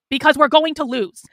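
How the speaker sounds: loud alarm to her audience; loud warning. Real, not acted. Warning followers forcefully.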